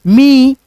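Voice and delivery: मी with a long, held "eee" vowel; drawn-out ई. Shown as a demonstration. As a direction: stretch मी out as "meee". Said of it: "ऐसे करके".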